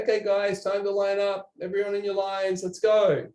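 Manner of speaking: a rambling coach rounding up the class; wordy instructor. Retold or imitated. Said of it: "most people will say".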